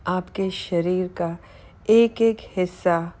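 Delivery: measured meditation voice with pauses between phrases; unhurried body-scan narration, phrase by phrase; guided meditation. Acted. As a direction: guide the listener calmly through relaxing each body part. Leads guided body relaxation meditation.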